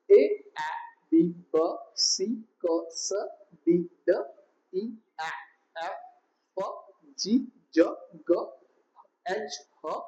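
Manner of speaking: each letter name, then its short sound, as in "B, B"; phonics demonstration. Shown as a demonstration. Teacher showing letter sounds, each letter and sound said separately. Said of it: "હવે એના pronunciation ની વાત કરું".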